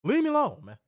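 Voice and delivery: loud, high yell to be left alone; half-laughing yell of leave me alone; shouted. Real, not acted. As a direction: shout it out, exasperated. Loud outburst at friend.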